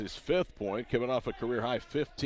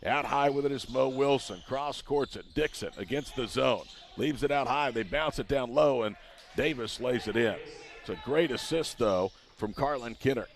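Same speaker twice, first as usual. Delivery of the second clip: play-by-play. Real, not acted. Live call of the play.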